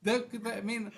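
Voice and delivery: high, laughing amazement; giddy, laughing excitement; laughing in disbelief. Real, not acted. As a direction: laugh through it, delighted.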